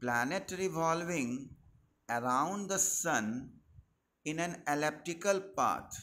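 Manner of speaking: very slow, word by word dictation for notes; teacher dictating the definition of Kepler's law, very slow. Acted. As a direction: spell out the law slowly so students can write it down.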